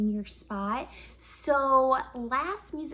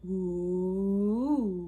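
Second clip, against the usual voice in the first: voice slide; 4 semitones lower than usual. Shown as a demonstration. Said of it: "let's see if you can do it with me".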